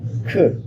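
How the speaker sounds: "ख" as a voiceless puff; short isolated "ख"; letter sound demo. Shown as a demonstration. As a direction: say "ख" as C's sound, not its name. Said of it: "सी नहीं बल्कि ख".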